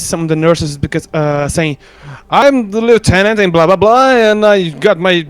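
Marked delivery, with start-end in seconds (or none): 2.3-5.2 mild officer pulling rank; lightly acted lieutenant giving orders; military talk. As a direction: demand it like a lieutenant. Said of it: "could I use my military talk".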